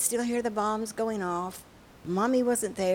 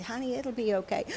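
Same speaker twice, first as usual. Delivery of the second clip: soft, soothing reassurance; comforting father; 3 semitones higher, 5 dB quieter, faster than usual. Acted. Father covering and patting his daughter, comforting. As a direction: gently soothe a frightened child. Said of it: "he comforted his daughter".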